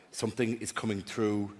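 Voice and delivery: low, hushed medium's voice; lightly voiced séance medium; psychic receiving spirits. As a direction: announce it low and soft, like a medium. Acting out a psychic at work.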